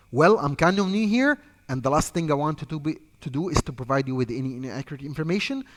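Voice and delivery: calm, quick agent script read; demo script lines. Shown as a demonstration. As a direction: read it like a polite call agent. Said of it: "Just say these words".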